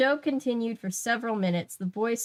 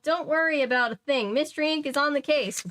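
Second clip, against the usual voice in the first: calling out; 6 semitones higher than usual. A narrator's reading. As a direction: call out to reassure him. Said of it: "Fred called".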